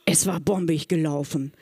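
whispered through a giggle; laughing whisper. Real, not acted. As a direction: giggle it out under your breath. Gleeful after the trick worked.

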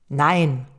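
answering a request with a decisive Nein; vehement no. Shown as a demonstration. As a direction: refuse with conviction, hit „Nein“ hard. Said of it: "Sag das richtig mit Betonung".

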